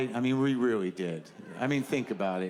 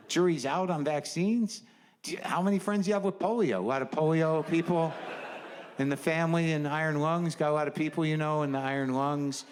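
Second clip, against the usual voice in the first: escalating comedy rant. Acted. Sarcastic rant at anti-vaxxers.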